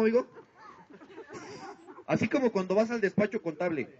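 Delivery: normal talking voice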